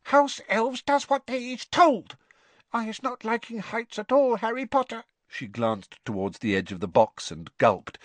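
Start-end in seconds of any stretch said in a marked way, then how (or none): 0.0-5.0 very high squeaking voice; a house elf meeting someone famous; tiny elf squeak. Acted. Winky introducing herself to Harry, awed squeak. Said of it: "a teeny quivering squeak of a voice".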